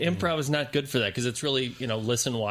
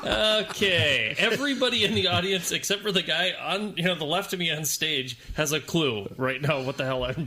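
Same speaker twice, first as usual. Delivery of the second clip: exasperated aside; 6 semitones higher than usual. Retold or imitated. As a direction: vent to the crowd in disbelief. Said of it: "where you're like".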